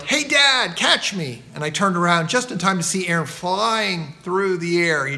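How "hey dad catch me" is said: high, loud call from above; child yelling. Retold or imitated. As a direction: yell it like a boy about to jump. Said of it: "I heard a voice from above yelled".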